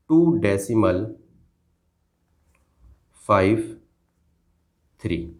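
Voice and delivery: long pauses before "फ़ाइव" and before "थ्री"; digit by digit. Shown as a demonstration. Teacher showing pupil each digit, "फ़ाइव" and "थ्री" set apart by pauses. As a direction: say "टू डेसिमल", then "फ़ाइव" and "थ्री" each separately. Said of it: "एक एक number को आपको अलग अलग पढ़ना है".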